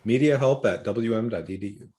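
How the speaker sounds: smooth radio announcer read. Pretend. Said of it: "My best radio voice".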